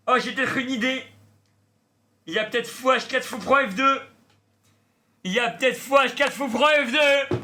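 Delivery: high, loud, excited commentator voice; sports commentator. Pretend. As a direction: call the game like a live sportscaster. Mock chess commentator play-by-play.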